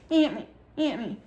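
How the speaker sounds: mock drunk slur, lightly voiced; drunk slurring friend. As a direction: play the hurt drunk friend mumbling.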